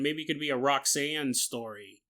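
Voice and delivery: ordinary talk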